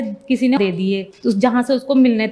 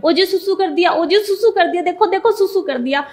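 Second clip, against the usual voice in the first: tearful calling out; 7 semitones higher than usual. Retold or imitated. Mother calling to husband in the shop, high tearful call. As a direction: retell calling out through joyful tears. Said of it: "मैं उनको रोते-रोते चिल्ला-चिल्ला के कह रही हूँ".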